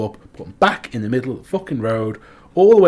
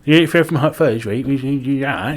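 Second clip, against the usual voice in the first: put-on Southwest accent; 2 semitones higher, 3 dB louder than usual. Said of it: "like, a proper, like, Southwest accent?".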